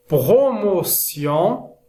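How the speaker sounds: slow, syllable-by-syllable French word list; measured dictation with pauses between words; careful word modelling. Shown as a demonstration. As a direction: sound out each word for learners. Teacher reads example list for learners.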